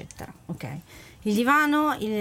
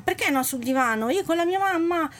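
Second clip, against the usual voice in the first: high, whiny puppy talking; 5 semitones higher than usual. Acted. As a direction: plead like a hurt little puppy. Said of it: "Il cucciolano".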